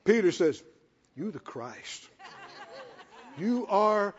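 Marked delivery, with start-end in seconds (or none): 1.2-4.1 much softer, with a laugh in it; hushed laughing awe. Retold or imitated. Peter speaks softly to Jesus, laughing in wonder. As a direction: breathe it out in awe.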